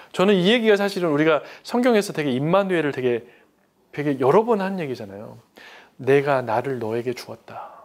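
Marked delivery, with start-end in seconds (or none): 6.0-7.7 God's tender voice. Acted. Repeating God's words gently.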